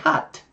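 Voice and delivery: "cut" with the English short uh vowel; "cut" with an aspirated k and short uh. Shown as a demonstration. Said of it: "Mà là cut".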